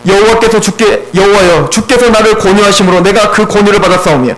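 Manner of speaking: lightly measured Bible reading; scripture reading. Acted. Preacher reads Jeremiah's lament to the congregation, understated scripture reading.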